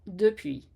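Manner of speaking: depuis said with a W glide, like an English learner; wrong English-style depuis. Shown as a demonstration. Teacher demonstrates a learner's mistaken sound. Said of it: "Do you find yourself saying words like puis".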